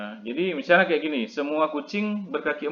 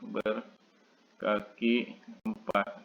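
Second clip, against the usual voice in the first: slow dictation; 4 semitones lower, 8 dB quieter, much slower than usual. Shown as a demonstration. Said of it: "teacher repeats phrase while writing".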